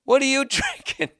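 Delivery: high screechy slow mock girl voice. Mocking the screechy stripper, high and screechy. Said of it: "the girl with the screechy voice".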